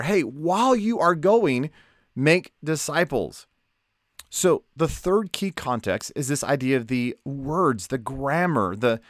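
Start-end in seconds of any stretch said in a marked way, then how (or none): 0.0-3.5 Jesus. Retold or imitated. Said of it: "yelling at me as I'm running out the door".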